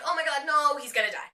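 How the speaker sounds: loud cry of "oh my God, no" that settles; a fan yelping in alarm; mock panic. Fan fearing the professor will die, loud alarmed outburst.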